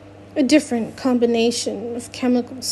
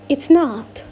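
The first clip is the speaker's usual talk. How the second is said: insistent repeat; 3 semitones higher, 4 dB louder than usual. Acted. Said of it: "she repeats".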